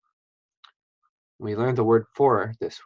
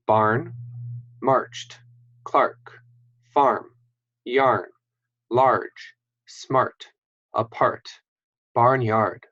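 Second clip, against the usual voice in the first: the same list read quicker; faster reading; much slower than usual. Shown as a demonstration. Teacher rereads the words faster for the class. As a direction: speed through the words. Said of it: "I'll read them faster one more time".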